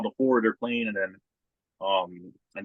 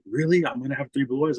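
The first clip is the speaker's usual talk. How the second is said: put-on amazed kid; 6 semitones higher than usual.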